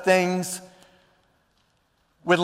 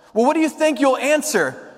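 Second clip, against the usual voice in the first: higher, lightly voiced little questioner; Piglet; 6 semitones higher than usual. Piglet questions Pooh, higher lightly put-on voice. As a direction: lift the question up in character. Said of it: "said Piglet".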